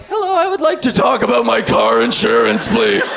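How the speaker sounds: a trans guy suddenly sounding like a bro on the phone. Retold or imitated. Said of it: "They'll be on the phone like".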